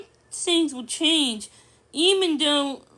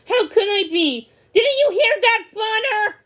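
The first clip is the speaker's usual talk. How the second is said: higher and louder, rising panic; frightened outburst; 8 semitones higher, 6 dB louder than usual. Acted. Daisy telling Millie about the storm, frightened. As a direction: let the fear spill out. Scared dog after storm.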